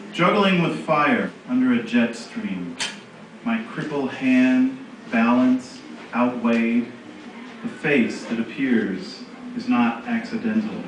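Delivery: slow, measured verse with long pauses; poetry reading. Acted. Reading a friend's poem to a gallery audience, measured poetry reading. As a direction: read each line apart, letting phrase endings fall.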